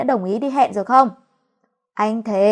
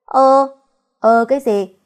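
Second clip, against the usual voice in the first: indignant exclamation; 2 semitones higher, 6 dB louder, slower than usual. Acted. Wife cuts husband off.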